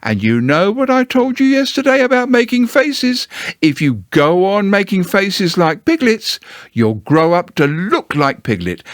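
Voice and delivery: high, stern scolding Kanga; severe. Acted. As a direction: scold like a strict mother. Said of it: "rather severely".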